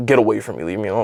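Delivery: mock icy, low, cold-hearted, dismissive tone. Retelling a woman's reply when approached outside her job, imitating a cold-hearted tone. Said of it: "with the most cold-hearted fucking tone".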